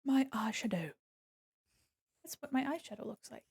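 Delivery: unvoiced little whisper. Real, not acted. Streamer whispering as she reveals her eyeshadow. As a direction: hush it to the viewers.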